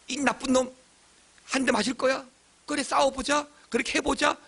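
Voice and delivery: mock polite fighting. Shown as a demonstration. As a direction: pick a fight in an even, unshouted high voice. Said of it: "조막조막하게 이야기합니까?". (높은 목소리로 차분히 싸우는 시늉)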